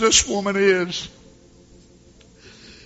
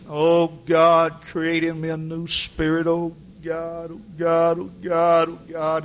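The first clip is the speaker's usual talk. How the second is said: tearful prayer; 3 dB louder than usual. Retold or imitated. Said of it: "heard her crying like this".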